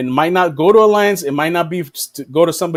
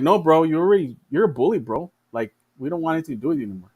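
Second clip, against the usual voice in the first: cool dismissal; 4 dB quieter, faster than usual. Retold or imitated. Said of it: "And China's like".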